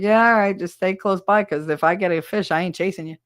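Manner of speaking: loud call easing into talk; offhand call to running kids; offhand warning. Retold or imitated. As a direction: brush the kids off while fishing. Retold brush-off to the kids.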